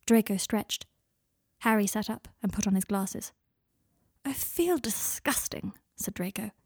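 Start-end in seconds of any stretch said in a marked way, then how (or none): 4.3-5.7 slow, higher, breathy whine; groggy whine. Acted. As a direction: moan it in self-disgust. Draco groggy after waking.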